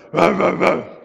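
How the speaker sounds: three quick barks like a dog down the rows; dog barking. Retold or imitated. Preacher imitating another neighbourhood dog barking loudly. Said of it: "another dog go".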